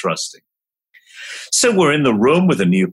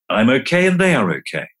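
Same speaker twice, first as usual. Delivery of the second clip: settled affirmation; faster than usual. Shown as a demonstration. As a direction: let it land calmly. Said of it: "here's a mantra or two".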